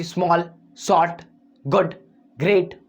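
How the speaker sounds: each word in a single beat; one-sound words. Shown as a demonstration. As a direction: say स्मॉल, शॉर्ट, गुड, ग्रेट each as one short burst. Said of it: "हम एक आवाज़ में निकाल देते हैं".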